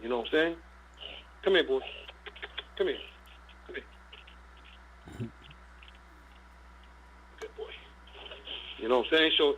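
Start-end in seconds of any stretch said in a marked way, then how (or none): 1.4-3.0 calling the dog. Real, not acted. Calling his dog over. 3.6-7.7 whispered coaxing. Real, not acted. Coaxing his dog close by.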